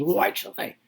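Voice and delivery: mock annoyed spouse shifting blame. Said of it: "gets annoyed and says".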